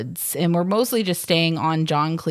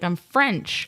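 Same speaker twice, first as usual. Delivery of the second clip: put-on French accent. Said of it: "by my silly accent".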